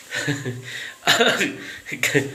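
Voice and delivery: long breathy chuckle; lingering wheezy giggle; laughing. Real, not acted. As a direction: laugh it off softly. Laughing after the joke.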